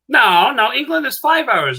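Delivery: high, emphatic retold objection; mock insistence. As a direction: insist in comic disbelief, pitched well up. Retold argument over time difference.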